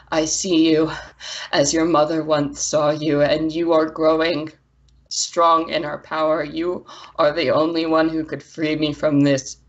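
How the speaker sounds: measured, grave apology; halting, deliberate otherworldly voice; proud elemental, sorrowful. Acted. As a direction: speak as a drained but proud spirit. Game master voices elemental figure.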